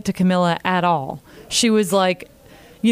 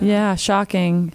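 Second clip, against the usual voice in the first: sarcastic; much slower than usual. Real, not acted. Sarcastic reply.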